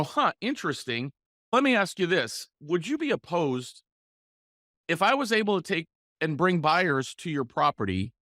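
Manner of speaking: calm, unhurried sales pitch; measured tonality. Shown as a demonstration. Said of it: "Notice the tonality, the pacing".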